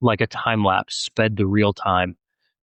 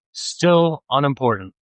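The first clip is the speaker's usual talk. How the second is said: exasperated; 6 semitones higher than usual. Acted.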